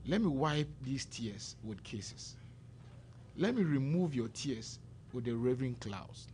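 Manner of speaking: slow, measured recitation of a poem; solemn poem reading. Retold or imitated. Guest recites Weep Not Child to the host, slow and solemn. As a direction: read it like a mournful verse, lingering on each line. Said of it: "let me start with this quotation from Weep Not Child".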